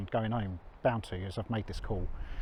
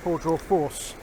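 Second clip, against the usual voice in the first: excited; 5 semitones higher than usual. Real, not acted. Arrives at the waterfall.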